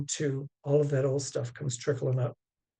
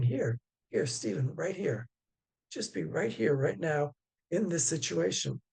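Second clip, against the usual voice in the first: gentle self-coaxing; 3 dB quieter than usual. Retold or imitated. Speaker gently calling his own wandering mind back, softly. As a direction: call yourself back gently, like a puppy. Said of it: "a way of saying to this mind of mine".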